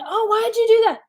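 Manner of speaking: Simba's complaint. Retold or imitated. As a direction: play the cub asking why he got hit. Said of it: "Rafiki in The Lion King".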